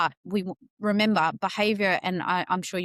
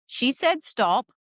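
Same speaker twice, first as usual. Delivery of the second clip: firm. Retold or imitated. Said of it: "I was quite firm with that stuff".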